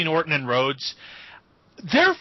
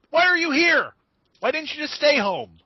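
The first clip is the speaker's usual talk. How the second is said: higher and louder, baffled; exasperated shout; 10 semitones higher, 4 dB louder than usual. Retold or imitated. Fans mocking Dolph for showing up, exasperated shout. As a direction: throw up your hands at him. Mocking a wrestler's pointless presence.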